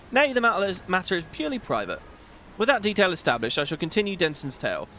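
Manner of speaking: lightly voiced gruff sea captain; a hint of a stately old admiral; Chief's voice. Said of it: "Something about doing that guy's voice".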